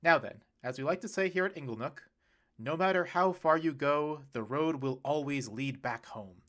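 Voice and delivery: pompous toast to the crowd; dad giving a hammy send-off speech; dad calling to order. Acted. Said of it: "Troy called everyone to order".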